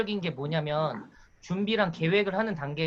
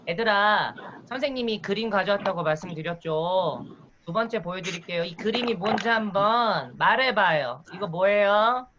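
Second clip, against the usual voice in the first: kindergarten teacher voice. Shown as a demonstration. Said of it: "유아라고 가정하고 제가 수업을 진행해 볼 테니까".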